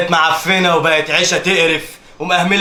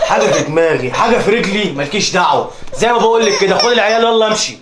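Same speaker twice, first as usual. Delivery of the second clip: loud, hard orders; angry shouting; 2 semitones higher, 5 dB louder than usual. Acted. Husband ordering his wife out, shouting. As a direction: shout her down.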